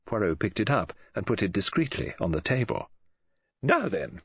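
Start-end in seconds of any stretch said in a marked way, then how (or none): 3.6-4.2 composed, getting down to business; restored calm. A narrator's reading. Woman friend collects herself to question the detective, calm. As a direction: gather yourself and begin afresh. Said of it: "suddenly restored to calm".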